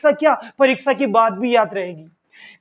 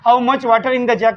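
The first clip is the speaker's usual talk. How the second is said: slow dictation; much slower than usual. Shown as a demonstration. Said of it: "teacher reading answer sentence".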